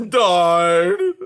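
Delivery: loud yell; the porcupine yelling at Junior. A narrator's reading. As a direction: yell it out, rising. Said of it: "yelled the porcupine".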